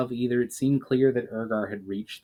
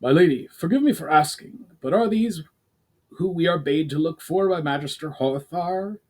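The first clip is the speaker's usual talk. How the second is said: deferential soldier; 5 semitones higher than usual. Acted. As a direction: report to your commander respectfully. Soldier asks his commander.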